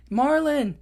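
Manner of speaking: high call for Marlin. Retold or imitated. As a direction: shout his name across the water. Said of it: "they're like".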